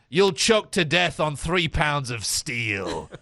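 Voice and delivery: lightly voiced guard's threat; slow, drawn-out game-guard catchphrase; Redanian guard. Guard to anyone running past, slow lightly acted threat. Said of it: "guards for Redania always just randomly say".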